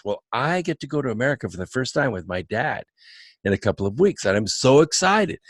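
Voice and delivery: lightly imitated excited teenager; mildly giddy retold quote; excited waitress. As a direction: tell it quickly, with a touch of youthful eagerness. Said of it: "she was really excited about it".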